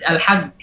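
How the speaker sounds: "al-haq" ending in a hard g; Egyptian jim. Shown as a demonstration. Teacher imitates what Egyptians often say, hard g jim. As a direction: say al-hajj as "al-hag". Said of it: "nutquha misal jim".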